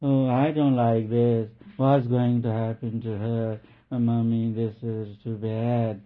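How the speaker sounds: hammed-up tearful lament; mock weeping girl. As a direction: whine it out like a scared child at a movie. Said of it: "in a weeping, really tone, real weeping tone".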